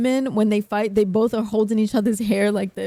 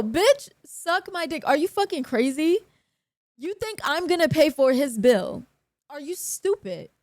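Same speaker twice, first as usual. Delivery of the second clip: indignant outrage; 5 semitones higher than usual. Real, not acted. Refusing the club's bill, high scornful outrage. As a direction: scoff at them, outraged.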